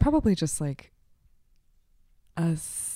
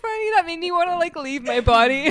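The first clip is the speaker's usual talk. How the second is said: laughing; 11 semitones higher, 9 dB louder than usual. Real, not acted. Cracking up after the demo.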